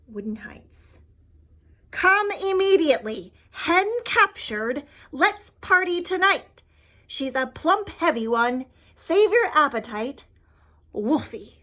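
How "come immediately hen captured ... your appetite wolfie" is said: loud, high, gleeful wolf gloating over a catch; greedy wolf voice. Acted. Wolf inviting friends to a feast, loud and gleeful. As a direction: bark out the invitation like a hungry wolf. Wolf's note read in voice.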